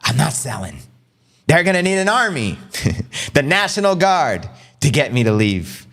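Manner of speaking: defiant Jordan Belfort voice, high on army; hammed-up DiCaprio holdout; Wolf of Wall Street. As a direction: play the stubborn broker. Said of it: "Leonardo DiCaprio, Wolf of, uh, Wall Street".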